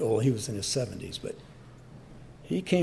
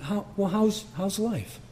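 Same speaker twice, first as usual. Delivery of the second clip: higher, gently sincere asking of how's life; sincere, not mocking; 7 semitones higher than usual. Shown as a demonstration. Pastor gently asking a sober, crying drunk, sincere. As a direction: ask it with honest care, no mockery. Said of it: "Not mocking you. I'm saying".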